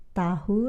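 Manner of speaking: "tahu" with the h sounded; formal pronunciation. Shown as a demonstration. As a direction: say "tahu" as two syllables, ta-hu. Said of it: "Formally, people, you, you're supposed to say".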